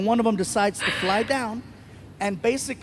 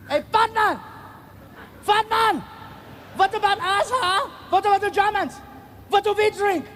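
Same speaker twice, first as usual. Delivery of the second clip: German heckler yelling; 11 semitones higher than usual. Retold or imitated. Comic retelling of a tall German heckler yelling at the comedian. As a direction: bark it like an angry German heckler. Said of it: "he's yelling".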